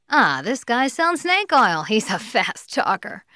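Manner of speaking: mildly acted distrust; suspicious prospect. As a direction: voice a wary customer's inner thought. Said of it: "the prospect will get the feeling".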